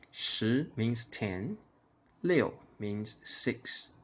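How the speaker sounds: slow, careful shi and liu; slow teaching. Shown as a demonstration. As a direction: explain each syllable slowly. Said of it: "imitate my tone and intonation".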